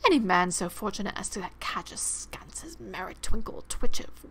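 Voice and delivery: lightly hammed-up reverent storytelling; mildly theatrical awe, dropping into breathy tones; mock-grand narration. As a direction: read it like an ode to a mighty wizard. Grand reading of wizard description.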